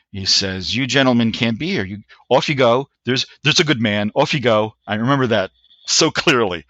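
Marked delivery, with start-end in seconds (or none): 0.7-4.7 lightly put-on British sergeant major; mock-British, politely dismissive order; stereotype British accent. Sergeant major shooing agents from their car, lightly mimicked British accent. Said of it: "a stereotype British accent".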